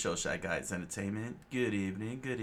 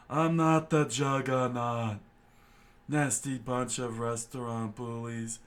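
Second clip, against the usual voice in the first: higher, slow, pompous officer voice; indignant officer; 5 semitones higher, 4 dB louder, slower than usual. Acted. Lieutenant scolding the restaurant staff, slow and indignant. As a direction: huff and sulk like an insulted bigshot.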